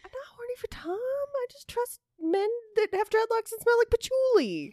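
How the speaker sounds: high, giggly denial; laughing protest. Real, not acted. Denying crush, laughing.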